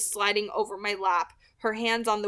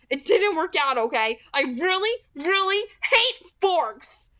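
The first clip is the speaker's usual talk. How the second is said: cruel words; 8 semitones higher, 5 dB louder than usual. A narrator's reading. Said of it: "The cruel words did their job".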